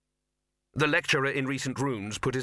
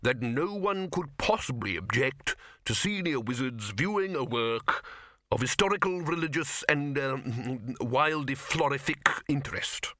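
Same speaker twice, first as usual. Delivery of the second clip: slow; 3 semitones higher, slower than usual. Acted. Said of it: "said the lecturer slowly".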